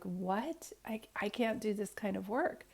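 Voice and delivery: breathless, horrified whisper; barely voiced, stunned disbelief; shocked whisper. Telling the lady she can't do this work, in a shocked whisper.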